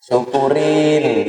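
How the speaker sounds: slow, drawn-out told-you-so; a slow teasing serves-you-right; mocking gloat. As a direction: savour the other's misfortune, slowly. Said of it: "gitu kan?".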